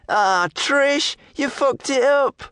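slow, strange-voiced lout; hidden thug. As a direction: drawl the blame, slowly. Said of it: "this new voice".

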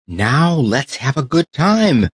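slow, eager call to play; a tin soldier rallying the others; cheerful cry. Acted. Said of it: "cried the tin soldier".

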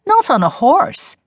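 put-on high, slow old woman's disbelief; granny aghast at the idea; startled grandmother. A narrator's reading.

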